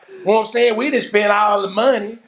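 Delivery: high, whiny complaint; hammed-up whine about being kicked out; mock indignant protest. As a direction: act the customer thrown out. Acting out kicked from club.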